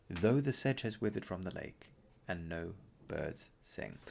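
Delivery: measured recital that fades very soft at the end; closing line of the ballad read aloud; poem reading. Acted. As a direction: let "and no birds sing" die away slowly.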